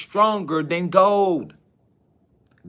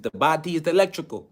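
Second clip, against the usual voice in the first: imitated accent, each word set apart, more subdued; Dr. Sebi's accent; 4 dB quieter than usual. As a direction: quote him lightly in his accent. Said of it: "You know, in his accent".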